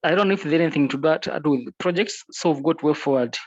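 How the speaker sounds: conference call. Real, not acted. Remote member speaking over the call.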